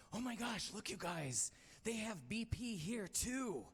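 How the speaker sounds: high, wide-eyed squeal of delight; young student giddy at the sights of London; excited gushing. Retold or imitated. Excited tourist calling out sights.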